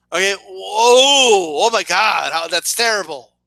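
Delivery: slow, drawn-out fake whoa; mock shock. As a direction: pretend to be appalled, sarcastically. Sarcastic fake shock at mom.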